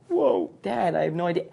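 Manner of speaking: "Whoa" high with a voice crack, then "Dad". Retold or imitated. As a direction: let "Whoa" break upward mid-word. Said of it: "that whoa happened with that crack in it".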